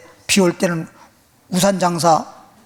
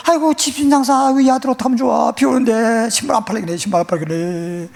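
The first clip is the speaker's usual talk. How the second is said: worried parent lamenting; 3 semitones higher than usual. Acted. Parent fretting that the son's shoes won't sell, lamenting. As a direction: fret aloud like an anxious parent.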